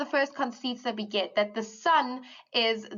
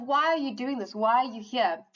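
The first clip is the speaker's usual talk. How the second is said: sarcastic. Retold or imitated. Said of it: "sarcastic kind of".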